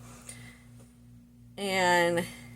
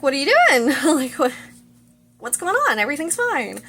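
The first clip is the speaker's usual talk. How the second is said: high, loud, flustered questioning; mock freak-out; 7 semitones higher, 4 dB louder than usual. She freaks out about the knife under her pillow, mock panic. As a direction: imitate a panicked cover-up, pitched way up. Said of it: "freaks out for a minute".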